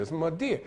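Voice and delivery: "Madeir" as two quick syllables, muh-DEER; elided mother dear. Shown as a demonstration. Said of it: "You don't say mother dear".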